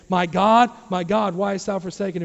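loud retold cry, easing after the opening; imitated outcry to God. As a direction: call out as the forsaken Son. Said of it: "you hear the one you just put your trust in saying".

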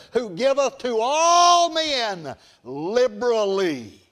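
drawn-out pulpit cadence; fervent preaching. Real, not acted. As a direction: declaim it to the congregation, stretching the scripture words.

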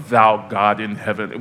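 put-on slow, solemn old-style prayer; mock formal prayer. Preacher parodying stiff formal prayer, slow and solemn. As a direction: pray it slow and lofty, half-mocking. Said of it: "we gotta say it like that".

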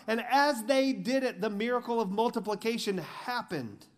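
high, loud, driving sermon delivery; preaching at full force. Acted. Pastor pressing the crowd about the loaves, full-force preaching. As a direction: preach it hard, pushing every line upward.

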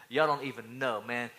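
puffed-up braggart; cocky, self-important swagger; arrogant boasting. Acted. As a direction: brag to your friends, full of pride. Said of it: "He's arrogant".

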